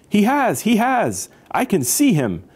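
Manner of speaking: very high, insistent exclaiming; excited. A narrator's reading. Elephant thinks he sees the fallen cousin, excited high voice. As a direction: pipe up in storybook excitement.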